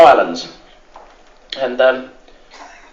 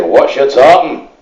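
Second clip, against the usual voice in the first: loud, fast Scottish dad challenging the lad; gruff Scottish father; 5 dB louder, slower than usual. Retold or imitated. Scottish bride's father grilling the London groom, in a Scottish accent. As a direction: bark it like a Highland father.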